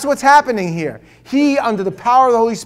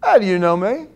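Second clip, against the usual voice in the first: put-on Brooklyn accent. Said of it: "thick Brooklyn accent here".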